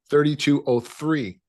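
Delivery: slow, careful "Thirty-two oh three" with a clean th and no Chicago accent; non-Chicago accent. Shown as a demonstration. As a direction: say it slowly in neutral American, every sound clear. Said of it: "let me say that with the non-Chicago accent".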